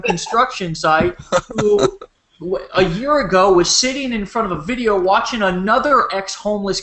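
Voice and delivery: emphatic, rolling pep talk with punched key words; motivational rant. Real, not acted. Leader rallying a conference call with success stories, fired-up rant. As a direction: build momentum like a fired-up team coach.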